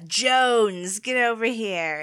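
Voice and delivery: coach calling out. Retold or imitated. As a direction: call the surname across the field. Coach calling a player over.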